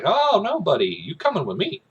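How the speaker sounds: high, loud "oh no" easing down; exaggerated catching someone out; mock accosting. Soldier pulling a man out of line, mock accosting.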